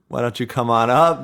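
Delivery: usual speaking voice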